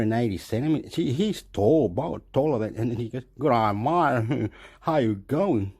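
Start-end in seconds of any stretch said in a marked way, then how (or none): 3.4-5.7 slow, lightly acted macho greeting; macho boyfriend. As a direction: draw it out like a tall macho guy. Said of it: "she's talking macho".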